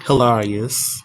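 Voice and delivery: Hilarious mit offenem langem a gesagt. Shown as a demonstration. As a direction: sag Hilarious gedehnt, mit breitem a. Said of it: "Say the word hilarious".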